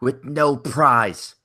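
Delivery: put-on slow, deliberate Canadian accent. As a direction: say it like a Canadian announcer. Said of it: "That's my Canadian accent".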